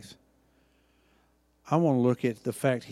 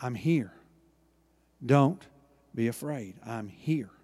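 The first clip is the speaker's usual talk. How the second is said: reassuring; 3 semitones lower than usual. Acted. Jesus' comforting words, softly.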